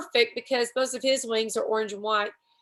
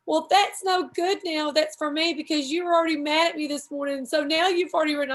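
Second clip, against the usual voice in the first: retold crying; 5 semitones higher than usual. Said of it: "Then I started crying".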